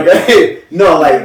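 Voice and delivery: giggling, barely holding it in. Real, not acted. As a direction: let the giggles spill out. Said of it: "Let him get his giggles out the way".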